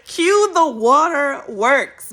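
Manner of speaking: high, loud, slow laughing-crying; overjoyed laughing sob about passing the exam; laughing tears. Real, not acted. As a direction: laugh through happy tears.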